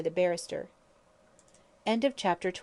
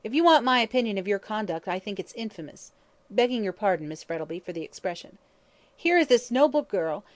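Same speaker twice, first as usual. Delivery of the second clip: angry; 3 semitones higher, 4 dB louder than usual. Acted. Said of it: "in an angry voice".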